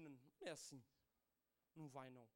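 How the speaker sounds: low, soft reported answer; subdued retold reply. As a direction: keep it down, recounting a sad moment. Retelling reaction to bad news.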